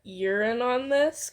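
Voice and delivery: slow suspicious threat; menacing accusation; threatening. Acted. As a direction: narrow it down at him. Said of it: "eyes narrow threateningly".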